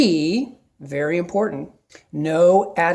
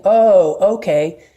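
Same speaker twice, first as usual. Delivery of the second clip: friendly acknowledgment; 3 semitones higher, 6 dB louder, much slower than usual. Shown as a demonstration. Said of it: "But by saying".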